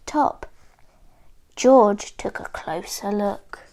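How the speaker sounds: clear, expressive picture-book reading; measured storybook telling with lifted key words; story narration for children. A narrator's reading. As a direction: read it like a story for small listeners.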